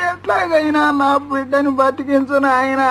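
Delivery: crying while begging; tearful pleading. Acted. Mother begs her brother to save her son, crying. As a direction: plead through tears for the child.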